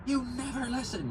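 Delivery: high-pitched imitation of mom yelling at dad. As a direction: mom screeching at dad about the box, mocked high. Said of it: "My mom goes".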